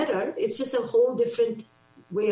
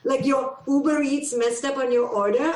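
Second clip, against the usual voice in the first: incredulous scolding, pitched higher; scoffing mom; 5 semitones higher, 3 dB louder than usual. Retold or imitated. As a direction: scoff at a spoiled kid, voice up. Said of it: "because I go".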